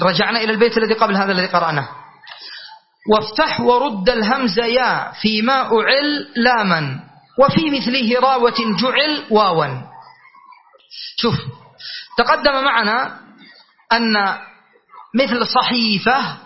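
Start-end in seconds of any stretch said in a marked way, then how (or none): 3.1-9.7 slow, measured reciting of a didactic poem; verse recitation. Shown as a demonstration. 15.1-16.4 slow صحيفة with a held ii; stressed long vowel. Shown as a demonstration. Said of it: "ستنقلب هذه المادة إلى إيش".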